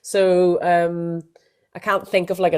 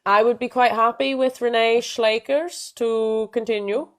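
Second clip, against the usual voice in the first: put-on Dutch accent; 3 semitones higher than usual. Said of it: "my terrible Dutch accent".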